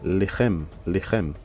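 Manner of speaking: Lechem as "le-KHEM", throaty kh; Hebrew reading. Shown as a demonstration. Teacher reading the word for bread, careful Hebrew Lechem. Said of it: "ça se lit".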